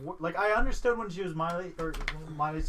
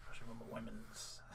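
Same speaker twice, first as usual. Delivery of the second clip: whisper; 5 semitones lower, 17 dB quieter than usual. Real, not acted. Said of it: "I do it at the bar".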